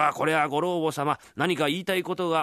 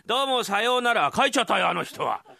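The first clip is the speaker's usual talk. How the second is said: surprised; 9 semitones higher, 5 dB louder than usual. Acted. Abrupt exit then surprised remark.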